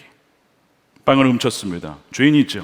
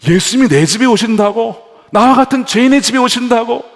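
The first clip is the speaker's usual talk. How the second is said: high, loud disbelieving questions; astonished; 11 semitones higher, 8 dB louder than usual. Acted. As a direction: gasp it out in wonder. Zacchaeus amazed.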